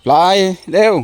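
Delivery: sharper urging. Real, not acted.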